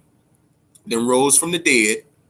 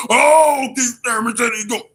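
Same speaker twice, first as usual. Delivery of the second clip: high, loud mocking cheer of fans; mock fan shout; 8 semitones higher, 3 dB louder than usual. Scene: mocking fans hyped by Thurman's talk, loud mock shout. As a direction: ham up the gullible fans yelling.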